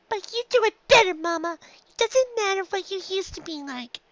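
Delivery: high filly voice, firm; a filly insisting; young filly Dinky, firm. A narrator's reading. Filly insisting to her mother, high and firm.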